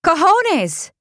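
high-pitched outraged yell. A narrator's reading. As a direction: yell it high in bad-tempered Spanish. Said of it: "she yelled".

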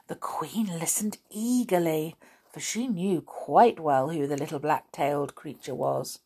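put-on measured storyteller's reading to children; story narration. A narrator's reading. Narrator telling of the messenger's find, storytelling. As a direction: tell the tale with lingering emphasis. Reads a fairy tale aloud.

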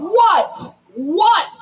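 "What" repeated as its own emphatic beat; underlined What. Shown as a demonstration. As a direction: underline the word "What" each time. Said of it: "Underline that".

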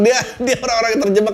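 usual speaking voice

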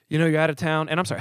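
breathing hard while talking; winded from climbing the stairs. Real, not acted. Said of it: "I'm breathing hard".

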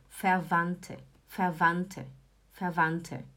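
teacher drilling "fervante", falling each time; pronunciation model. Shown as a demonstration. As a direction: repeat "fervante" evenly for learners, clear T. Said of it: "Você não fala o D".

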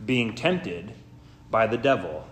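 formal, measured Gospel reading with weighted phrases; solemn lectern delivery with deliberate pauses; scripture reading. Real, not acted. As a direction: read it out to a congregation, phrase by phrase. Reads the Gospel aloud in church.

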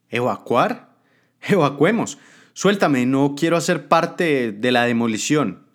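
begging to be let loose; urgent adviser. Acted. Adviser wants to flee.

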